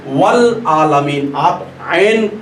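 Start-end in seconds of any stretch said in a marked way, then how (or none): 0.1-1.3 वल आलमीन said slowly, ल clearly sounded; वल आलमीन drawn out with a clear ल; slow recitation. Shown as a demonstration. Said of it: "तो क्या पढ़ेंगे".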